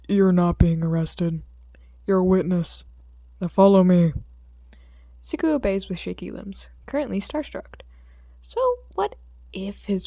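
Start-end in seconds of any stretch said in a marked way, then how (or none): 0.1-4.1 firm order. Acted. Hero corrects and orders boy.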